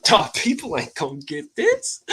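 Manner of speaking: replaying his own amazed words to her, high up; excited retelling. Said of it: "I'm like".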